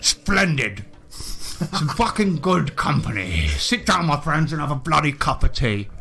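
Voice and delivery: hearty, swearing colonial gent greeting the party; a lightly voiced jolly British explorer; bluff British adventurer. Willie greets the newcomers, a lightly voiced hearty British gent.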